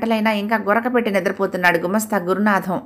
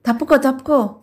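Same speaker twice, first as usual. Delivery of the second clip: urgent warning; 6 semitones higher than usual. Acted. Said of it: "హెచ్చరిస్తూ".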